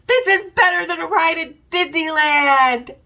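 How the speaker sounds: high, thrilled squealing voice; excited squeal. Retold or imitated. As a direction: squeal like on a ride. And screaming.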